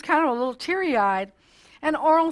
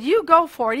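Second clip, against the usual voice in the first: higher, louder voice of a cheering friend; encouraging; 4 semitones higher, 5 dB louder than usual. Retold or imitated. Friend cheers Carlton on to race, encouraging. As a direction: urge him on with a louder lift. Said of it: "He encouraged him".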